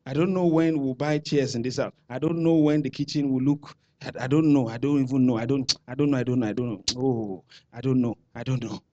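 lightly voiced unsure churchgoer fading away; mock doubter. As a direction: imitate a believer who doubts everything. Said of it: "Are you sure you don't know?".

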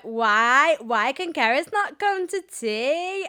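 high, drawn-out mock whine; whining child. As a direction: whine loudly like a child refused by mum. Child whining at mum in retold scene.

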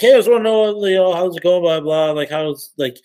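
cheerful and upbeat, keep it light; friendly check-in. Retold or imitated. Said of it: "I was like".

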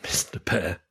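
low growly bear character voice; deep bear voice. Acted. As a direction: answer like a big friendly bear.

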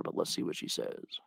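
whisper. Real, not acted. Podcaster waiting on the host, whispering to himself. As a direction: murmur it to yourself while waiting.

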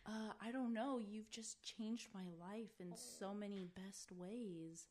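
mock-sweet imitation of a husband, slowing toward the end; husband's cutesy voice. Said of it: "does his voice".

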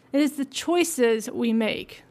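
It is the choices we make, said slowly and firmly; slow, deliberate emphasis. Shown as a demonstration. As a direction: drive the answer home slowly. Restates the moral as an answer.

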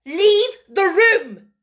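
slow, loud command; stern order. A narrator's reading. Headmistress dismissing the maid, stern and slow. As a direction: order her out, slowly and coldly. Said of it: "ordered Miss Minchin".

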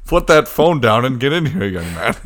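loud stern mock scolding; scolding parent. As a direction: bark it like a strict parent.

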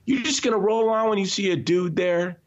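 high, pushed-up angry challenge; high outraged scolding; indignant retort. Retold or imitated. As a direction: confront the driver face to face. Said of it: "and I, I go".

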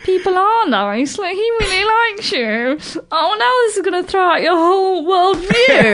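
sweetly needling, stretched vowels; teasing singsong. Retold or imitated. Mock voice of challenger to worldview.

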